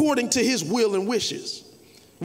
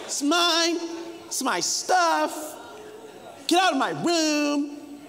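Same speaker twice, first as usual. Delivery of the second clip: higher incredulous parent; slow, sarcastic disbelief; hammed-up parent scoffing; mock outrage; 8 semitones higher, slower than usual. Parent mocks the kid.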